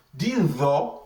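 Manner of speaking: "the" said as a heavy "tho"; heavy letter. Shown as a demonstration. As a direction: say "the" with an emphatic th from the throat. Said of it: "this the is heavy".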